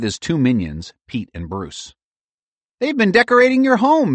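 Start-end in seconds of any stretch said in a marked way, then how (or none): 2.8-4.1 squirrel voice. A narrator's reading. Mary squirrel voice.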